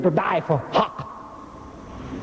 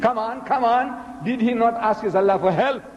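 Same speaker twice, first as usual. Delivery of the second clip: impatient demand; 6 semitones higher than usual. Acted. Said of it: "he started stamping his feet".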